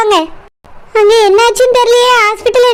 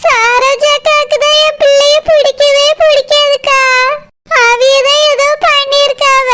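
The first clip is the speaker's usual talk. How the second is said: mildly raised, plaintive complaining; tearful lament. Acted. Mother blaming others for her child's injury, tearful. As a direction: lament as a weeping mother would. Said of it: "அழாத சிலப்பா".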